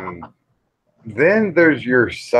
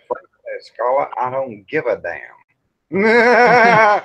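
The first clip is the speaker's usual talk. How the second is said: Rhett Butler quote; 3 semitones higher, 4 dB louder, slower than usual. Retold or imitated. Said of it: "But Rhett Butler said".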